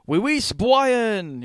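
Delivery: high, slow hammed-up French; a hammed-up French accent; mock French accent. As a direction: play a silly Frenchman. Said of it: "he's like".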